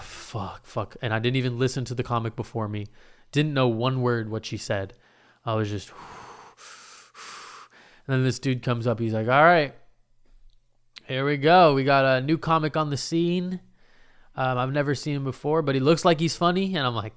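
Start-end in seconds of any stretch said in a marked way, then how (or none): 0.0-1.0 soft, low muttered curse; anxious muttering. Retold or imitated. Nervous inner cursing before going on. 9.3-16.8 raised, upbeat host voice; emcee introduction. Retold or imitated. Emcee introducing a new comic.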